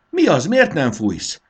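high, loud, drawn-out demand; urgent shout. A narrator's reading. Fanny asks Marci why he isn't spraying, shouting urgently. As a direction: yell the question urgently. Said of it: "kiabált Fanny".

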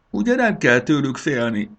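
high, tearful little question; whimpering. A narrator's reading. Bori asks if the old dragons are dangerous, whimpering. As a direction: whimper it, seeking reassurance. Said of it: "pityergett Bori".

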